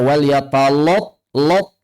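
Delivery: "yatalot" with a thick l, the vowel rounded to o; mispronounced wal yatalattaf. Shown as a demonstration. Teacher showing students a common error, thick "lot" pronunciation. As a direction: say "lot" with a heavy, rounded o instead of a thin a. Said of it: "juga banyak yang baca".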